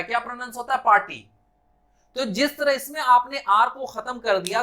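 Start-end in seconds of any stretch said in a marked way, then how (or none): 0.8-1.2 पार्टी as "paa-ti"; silent r. Shown as a demonstration. Teacher answering own question, पार्टी as "paati". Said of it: "ये ऊपर का sound pronounce नहीं होता".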